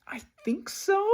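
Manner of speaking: tentative whisper, rising; whispered unsure reply. Retold or imitated. Doctor's hesitant answer, imitated as a whisper. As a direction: whisper it like you're not allowed to say. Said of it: "they were like".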